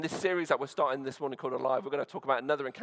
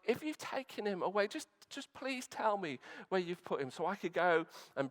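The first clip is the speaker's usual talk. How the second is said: soft, higher-pitched plea; pleading; 3 semitones higher, 5 dB quieter than usual. Acted. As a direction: beg gently, with quiet urgency. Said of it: "you know, the pleading".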